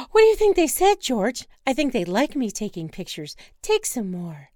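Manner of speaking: put-on birthday girl begging to see penguins; eager Wanda. Wife urging husband onward, eager and pleading.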